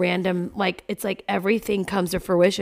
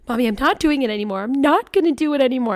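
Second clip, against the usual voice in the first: put-on higher, louder, fast whiny child voice; imitating crying daughter; 6 semitones higher, 5 dB louder, faster than usual. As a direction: play the upset little girl refusing. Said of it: "And she's sobbing".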